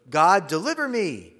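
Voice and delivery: urgent plea. Shown as a demonstration. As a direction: beg God to get you out. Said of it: "See the difference?".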